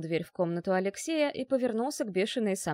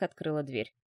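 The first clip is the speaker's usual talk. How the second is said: ordinary delivery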